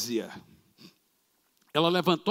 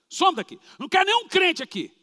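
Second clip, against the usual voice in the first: angry dismissal; 11 semitones higher, 4 dB louder than usual. Acted. Police chief throws them out.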